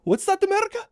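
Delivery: put-on a light Ukrainian accent, jumping high on What's that; mock-innocent Ukrainian accent, slowing on little old me; Zelensky accent. Gamer playing Zelensky asking America for help, lightly accented. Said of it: "do my best Zelensky accent".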